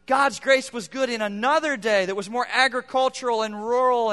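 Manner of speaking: a hint of a defeated grumble; mock complaining. Churchgoer excusing himself, lightly mocked whine. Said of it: "the tendency is to say".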